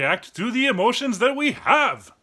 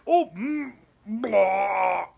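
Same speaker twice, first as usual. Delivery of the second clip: disgusted gag; 3 semitones lower, much slower than usual. Retold or imitated. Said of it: "you start to feel like".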